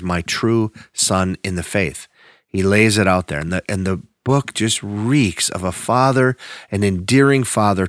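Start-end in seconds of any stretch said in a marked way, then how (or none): 0.0-2.1 tender. Retold or imitated. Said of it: "his true heart for Timothy".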